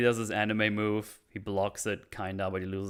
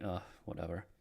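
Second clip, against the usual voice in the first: bored; 3 semitones lower, 11 dB quieter than usual. Retold or imitated. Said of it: "He's just bored".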